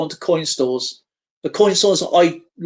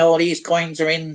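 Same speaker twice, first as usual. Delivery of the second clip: imitated robotic AI voice. Mocking coin channels that all use the same ai voice: imitating a robotic ai voice. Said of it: "it's like robots".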